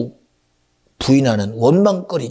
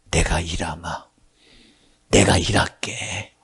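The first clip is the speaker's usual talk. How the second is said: gentle reassurance; 9 semitones lower, 4 dB quieter than usual. Acted. God speaking reassuringly.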